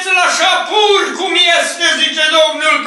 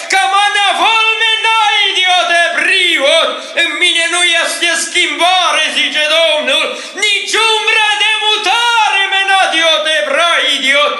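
prophetic preaching. Real, not acted. Prophet speaking for the Lord to the covenant people, fervent preaching. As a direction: preach it in bursts, slowing into tongues.

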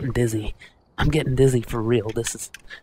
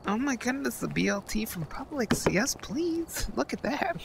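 Ed Bassmaster; 5 semitones higher, 7 dB quieter than usual. Acted. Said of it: "Calm down, Ed Bassmaster".

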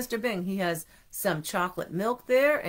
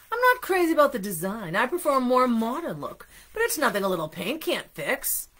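fussy donut voice; 2 semitones higher than usual. Acted. Arnie's fussy remark.

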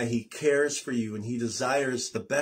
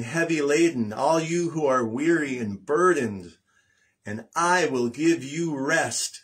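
earnest scripture proclamation; slower than usual. Acted. Voicing Jesus's invitation.

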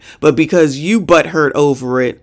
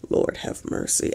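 breathless whispered plea; exasperated whisper; 11 dB quieter than usual. Real, not acted. To herself after a dumb comment, soft exasperated whisper. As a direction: whisper it to yourself in despair.

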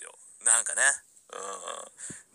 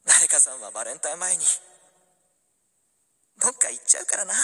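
a hint of a teasing girl's voice; playful girl. Rabucho playfully teases her new boyfriend, lightly girlish. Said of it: "おどけるラブチョ".

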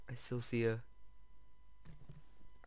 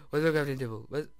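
gasped, fast and louder question; sudden alarm; 4 dB louder, faster than usual. Real, not acted. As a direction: rush it out in a sudden panic. Gasps, repeats faster.

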